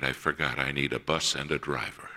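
lightly laughing through the line; laughing admission. Retold or imitated. Mother conceding to the bus owner, a little laugh in her voice. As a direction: chuckle at her own oversight. Mother admits forgetting the driver.

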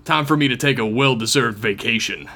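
reading the email as a stern action hero; mild, earnest hero read; real action hero voice. Acted. Reading a Starfleet agent's email, light action hero voice. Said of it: "that's my real action hero voice".

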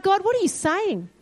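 high-pitched, astonished questioning. Retold or imitated. Driver asking God about the truck's slogan, astonished. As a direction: reenact amazement with pitch lifted well up.

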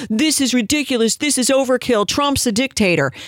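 a light mock of leftists crying overkill; mock leftist outrage. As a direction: mimic shrill outrage at the ban. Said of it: "screaming and yelling about it".

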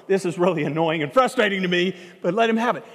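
mild mock annoyance, voiced firmly; retold frustrated thought, giving in grudgingly; inner frustration. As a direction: act out grudging inner protest. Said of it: "inside, she's going".

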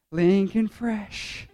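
slow, stretched-out catchphrase; drawn-out hype exclamation. Acted. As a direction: draw it out like a slangy boast. Joking hype word, then retracted.

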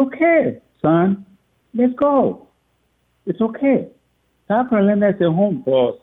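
high, bright-pitched comforting okay, son; a father gently calming his crying son; reassuring father. Retold or imitated. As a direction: lift your voice to soothe the boy.

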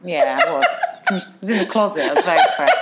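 laughs through the words; laughing off a sad memory; laughing confession. Real, not acted. To a friend, admitting her twenties were rough, laughing. Laughing admission of being depressed.

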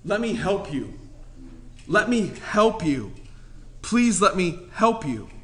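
soft loving "let me help you"; gentle plea. Retold or imitated. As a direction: reach out gently to a struggling brother. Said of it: "I go to them and say".

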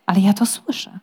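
unvoiced insistent protest; whispered protest. Lord protesting in a whisper to his servant. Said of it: "zaprotestował lord Peter".

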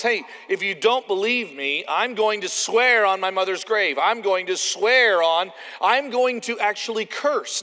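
acted, escalating oath; insistent oath. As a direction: swear it forcefully, stretching the key words. Acts out a person swearing oaths.

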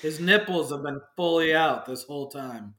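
words around a lollipop; sucking a lollipop. Real, not acted. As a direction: lollipop in the mouth. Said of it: "while I'm sucking on my lollipop".

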